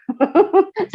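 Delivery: quick high chuckle at oneself; short laugh. Real, not acted. Believer laughs after mimicking own old scolding, brief chuckle.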